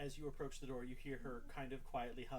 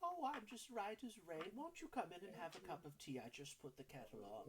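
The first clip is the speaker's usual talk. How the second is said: put-on high, sweet old woman's voice; 6 semitones higher than usual. River inviting Glamdry in for tea. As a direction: offer tea brightly.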